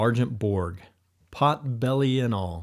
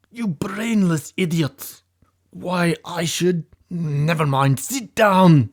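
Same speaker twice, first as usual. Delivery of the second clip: higher, slower, loud insulting boss; angry boss; 9 semitones higher, 6 dB louder, slower than usual. A narrator's reading. Leader berating the henchmen, ending in a loud order. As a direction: build to a barked order to sit. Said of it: "the angry Russian leader".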